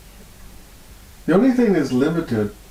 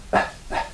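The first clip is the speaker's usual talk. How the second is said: imitated labored breathing; 5 dB quieter than usual. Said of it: "her whole breathing was like this".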